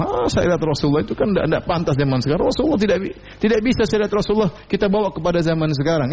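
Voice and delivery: lightly hammed-up sneer; scornful mocker. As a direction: brush the rules off as outdated. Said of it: "Ngejek Rasulullah".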